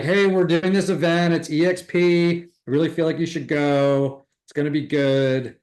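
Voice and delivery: eager invite to a friend; enthusiastic invite. Shown as a demonstration. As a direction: sell it with real passion. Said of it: "you have to bring the enthusiasm and the passion".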